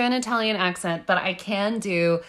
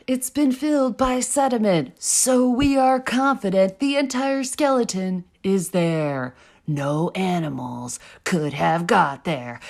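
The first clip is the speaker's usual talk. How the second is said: spookiest voice; 2 semitones lower than usual. Shown as a demonstration. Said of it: "You tried your spookiest".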